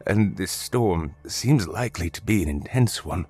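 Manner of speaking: lightly voiced apologetic old man; polite old stranger. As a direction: gently plead as a humble old traveler.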